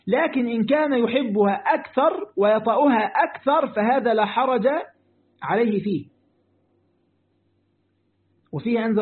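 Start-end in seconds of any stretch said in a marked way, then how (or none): 0.1-6.1 slow, deliberate classical Arabic reading; measured scholarly read-aloud; formal quotation reading. Acted. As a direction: quote the book slowly, stretching each phrase.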